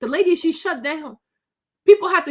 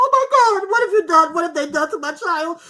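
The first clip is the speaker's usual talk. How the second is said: imagined mother's anguish; 4 dB louder than usual. Retold or imitated. Voicing a mother at the morgue.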